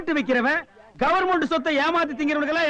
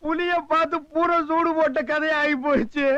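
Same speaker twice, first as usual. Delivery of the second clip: acted sobbing wail; tearful lament. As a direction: wail in self-pity at being dumped here. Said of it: "அழுவாதப்பா".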